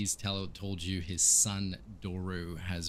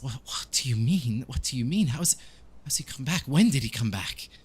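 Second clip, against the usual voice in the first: higher, pleading questions; tearful Ismark; 6 semitones higher than usual. Acted. Man questioning the priest about Doru's return, higher and distressed. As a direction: repeat yourself in raised, distressed disbelief. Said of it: "really solemnly and, um, like, almost just with, with tears as well".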